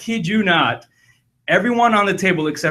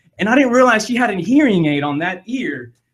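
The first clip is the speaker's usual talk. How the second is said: usual speaking voice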